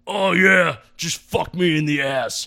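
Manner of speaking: high, loud, slow mocking voice; girlfriend's family impression. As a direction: ham up a prissy family. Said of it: "Here's an impression of your girlfriend's family".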